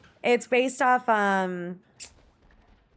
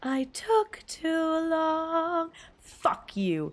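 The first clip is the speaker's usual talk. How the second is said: mock outrage; 2 semitones higher, much slower than usual. Mock fury at friend over sad song.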